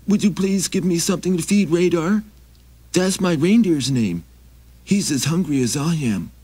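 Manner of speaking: high, pleading little traveler; high begging wanderer voice; Maxie voice. Acted. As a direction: raise the pitch and ask humbly.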